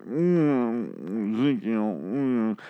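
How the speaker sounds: mock moping groan; Ezekiel the Sad. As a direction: lightly mimic a sulking king, humming through it. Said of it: "on the stage and moping".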